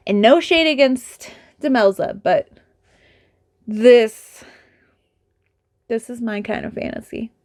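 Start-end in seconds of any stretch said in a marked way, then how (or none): 3.7-4.4 hushed breathy whisper. Real, not acted. Whispering to the camera about her favorite fantasy. 5.9-7.3 1 hushed. Real, not acted. Hushed confession about favorite genre.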